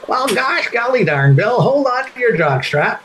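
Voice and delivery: an excitable gosh-golly analyst; folksy TV hockey pundit answering the host; Howie Meeker impression. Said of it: "here's Howie Meeker".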